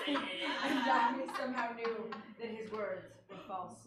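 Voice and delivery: reading through giggles; can't stop laughing mid-sentence. Real, not acted. Breaks up laughing while reading.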